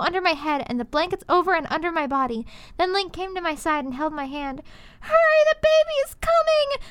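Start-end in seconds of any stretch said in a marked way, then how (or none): 5.0-6.9 high, pressing call for help; urgent cry. Acted. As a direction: cry out that the baby is coming. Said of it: "I cried".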